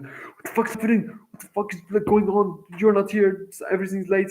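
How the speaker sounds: worked up, pitched high; high-energy stressed outburst. Retold or imitated. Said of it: "imagine the energy level".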